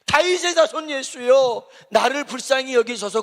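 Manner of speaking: a hint of the blind beggar pleading; mild cry for mercy. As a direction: beg a little, lightly voiced. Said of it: "그러는 거예요".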